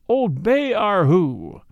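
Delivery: long drawn-out slow vendor's cry; slow drawn-out mock street call. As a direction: call it out slowly like an old coal man. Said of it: "for it sounded like that".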